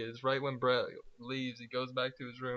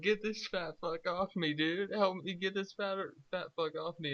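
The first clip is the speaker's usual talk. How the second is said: retold yelling; 6 semitones higher than usual. Friend retells a plea to pull someone off, high mock yelling. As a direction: imitate someone yelling for help. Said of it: "he's yelling".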